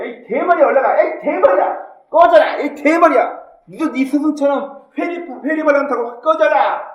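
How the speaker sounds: put-on high, loud taunts like jeering kids; high-pitched heckling, acted out; mocking jeer. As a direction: shout insults like a gang heckling someone. Voices children jeering at prophet.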